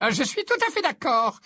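high, hearty reply; warm agreement. A narrator's reading. Professor Sprout agrees with her colleague, warmly. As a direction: agree with cordial eagerness. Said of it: "répondit chaleureusement".

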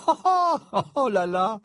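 high, exaggerated oohing; loud, high-pitched mock shock; scandalised. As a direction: gasp at juicy gossip, hammed-up. Shocked reaction to romance idea.

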